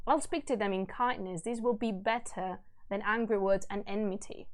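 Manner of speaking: measured, solemn storytelling; stately reading of a verse tale; epic story narration. A narrator's reading. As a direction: read the old epic aloud with gravity. Reads epic aloud.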